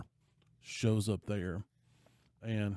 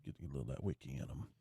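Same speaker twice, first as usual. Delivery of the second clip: whispered narration; 9 semitones lower, 13 dB quieter, much faster than usual. Real, not acted. Dramatic scene narration.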